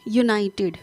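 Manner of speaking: "यूनाइटेड" starting on a clear y glide; opening sound shown. Shown as a demonstration. Teacher asks students to say it, y sound shown. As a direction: sound out "यूनाइटेड" with "yoo" at the front. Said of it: "य की sound रख रहा है".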